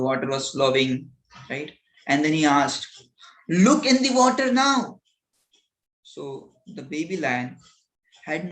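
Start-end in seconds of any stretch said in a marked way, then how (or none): 3.5-5.0 higher, louder order; commanding. Acted. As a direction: command the cub like an elder. Acted elder lion ordering the cub.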